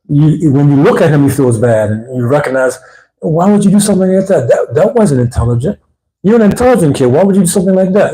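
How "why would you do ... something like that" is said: encouraging parent. Retold or imitated. Father gently corrects intelligent son.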